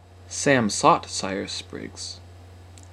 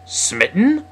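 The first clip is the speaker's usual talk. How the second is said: high, loud incredulous question; indignant rising retort; snarling; 8 semitones higher, 5 dB louder than usual. A narrator's reading. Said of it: "snarled Simon".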